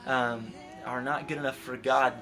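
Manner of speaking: jab the blame at them; mock accusers, pointed; accusing crowd. Voicing accusers throwing rocks.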